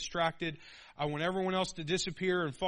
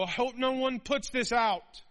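high, louder fearful worry; timid mock voice; 8 semitones higher, 6 dB louder than usual. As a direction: play a nervous, hiding Christian. Timid believer hiding light.

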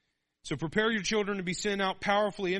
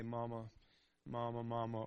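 quiet, lower tender mama calls; wistful soft; 5 semitones lower, 7 dB quieter than usual. A narrator's reading. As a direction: say it softly, missing those days. Wistful memory of children calling.

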